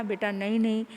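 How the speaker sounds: calm the crying son tenderly; father hugging his son, gentle; lovingly. Acted. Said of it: "प्यार से समझाया".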